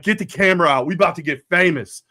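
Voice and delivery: sarcastic glee, get the camera out; sarcastic taunt. Retold or imitated. Father retelling taunting the driver who stopped, mock glee.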